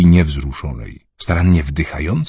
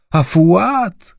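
high sudden call; cry out; 13 semitones higher, 3 dB louder than usual. Acted. Mother suddenly cries out for her son. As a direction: call out the son's name. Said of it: "krzyknęła".

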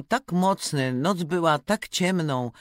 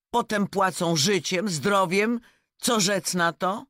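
turkey's speech; 4 semitones higher than usual. Acted. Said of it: "Indor powie".

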